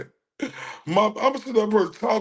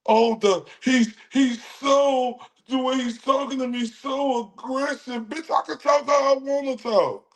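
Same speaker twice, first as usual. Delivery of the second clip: higher-pitched mocking Karen voice; 6 semitones higher than usual. Mocking the accuser who called him aggressive, mock Karen voice. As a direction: whine it like the accuser. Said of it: "Karen, uh, angry white woman shit".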